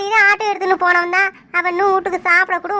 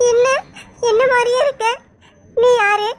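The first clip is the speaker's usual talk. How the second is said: startled; 4 semitones higher than usual. Acted. Sees her double.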